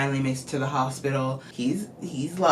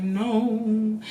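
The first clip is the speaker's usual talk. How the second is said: high, drawn-out mock wail; mock crying; 4 semitones higher than usual. Reviewer imitates Kat crying to Jim, in a mock wail. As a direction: wail it, imitating a tearful woman. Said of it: "Obviously, she's crying. She's like".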